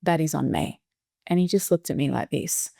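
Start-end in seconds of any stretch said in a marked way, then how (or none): 0.0-0.8 re-enacted heartfelt apology to a son; calm, sincere apology. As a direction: take a breath and own it gently, unhurried. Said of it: "I took a breath, and I said to him".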